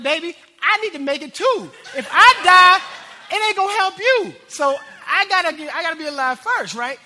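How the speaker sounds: high, loud plea broken by laughter; laughing desperate plea. Retold or imitated. Preacher retelling his plea to his wife, laughing loudly. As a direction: laugh while pleading with your wife. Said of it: "I'm like".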